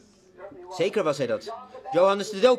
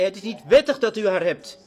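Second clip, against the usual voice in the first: firm, louder proclamation of wettig; bold rebuke; 4 dB louder than usual. Retold or imitated. John the Baptist rebuking the king, firm and louder. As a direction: declare it straight to the king's face. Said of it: "Hij zei".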